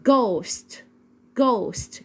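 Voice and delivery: "ghost" starting with a hard g. Shown as a demonstration. Teacher models the word for learners, "ghost" with hard g. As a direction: model "ghost" with g as in geem, h silent. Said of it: "بنطقها as in ج".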